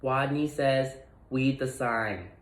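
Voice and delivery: small timid squeak, r as w; a shy little mouse squeaking orders; mildly squeaky timid voice. Acted.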